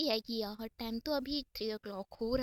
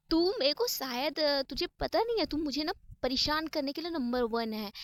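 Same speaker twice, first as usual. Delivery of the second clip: a touch of heated complaint, pushed louder; mildly exasperated; 6 dB louder than usual. Acted. Isha answers her worried friend's advice, mildly exasperated.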